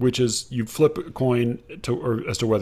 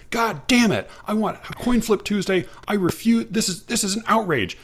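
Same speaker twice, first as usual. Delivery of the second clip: higher, hammed-up fake fury; sarcastic mock outrage; 9 semitones higher than usual. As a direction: play a customer's over-the-top outrage, tongue in cheek. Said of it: "talking in such a sarcastic tone of voice".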